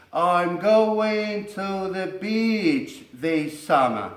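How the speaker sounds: beach with a long ee, said slowly; slow English model sentence. Shown as a demonstration. Teacher reading an English example slowly. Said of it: "la palabra beach".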